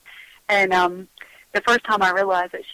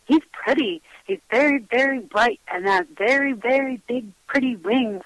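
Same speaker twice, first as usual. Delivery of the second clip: lightly voiced little kid, stressing each very; a hint of childlike singsong in the description; imitated three-year-old; 2 semitones higher than usual. Child describing pretty friend to mom, childlike admiration. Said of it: "What does he look like?".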